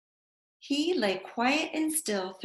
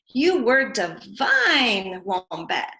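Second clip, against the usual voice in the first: slow praise; 6 dB louder, slower than usual. Acted. Emu's final praise.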